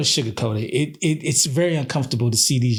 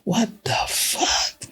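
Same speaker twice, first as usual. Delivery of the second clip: stunned disbelief; 8 semitones higher, much slower than usual. Retold or imitated. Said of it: "I'm just looking like".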